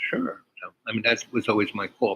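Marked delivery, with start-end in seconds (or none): 0.1-0.4 eager yes. Retold or imitated. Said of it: "And she was".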